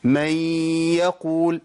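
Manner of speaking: من يقول with the n melted into a long nasal y; slow nasal glide joining من يقول; merge into ya. Shown as a demonstration. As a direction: hold a humming y between من and يقول. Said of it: "مع الياء".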